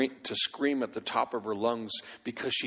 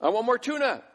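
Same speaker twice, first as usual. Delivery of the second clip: put-on very high child voice; imitated three-year-old demanding; whiny toddler; 3 dB louder than usual. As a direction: beg like a little boy. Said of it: "Lewis goes".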